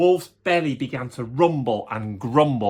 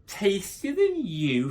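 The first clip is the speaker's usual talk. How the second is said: thundering wolf; 5 semitones higher, slower than usual. Acted. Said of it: "thundered the wolf".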